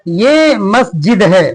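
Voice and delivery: each word read out slowly and evenly; slow lesson reading. Shown as a demonstration. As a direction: read it aloud clearly for young pupils. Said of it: "reads the lesson text slowly". (बच्चों को पाठ पढ़कर सुनाते हुए, धीरे-धीरे)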